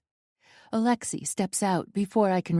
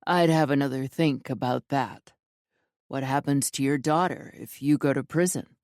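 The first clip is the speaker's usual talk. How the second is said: lower, calm threatening male voice; cold menacing man; 3 semitones lower than usual. Acted. Alexei threatens heroine.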